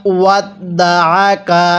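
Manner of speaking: ওয়াত দা আ কা with আ pressed in the throat; throat ain. Shown as a demonstration. Teacher shows students the correct ain sound. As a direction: squeeze the আ from the throat. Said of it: "আইনটা যদি আমরা গলার মধ্যে চাপ দিয়ে না পড়ি".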